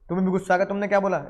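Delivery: ordinary talk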